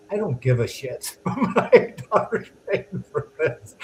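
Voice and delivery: cracking up mid-quote, voice climbing; laughing through the quote. Retold or imitated. Salesman retelling the customer's blunt refusal, laughing.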